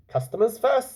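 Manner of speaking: high, loud, gushing host; jolly showman uncle. Acted. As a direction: welcome everyone like a showman. Rambashi brushes waiter off.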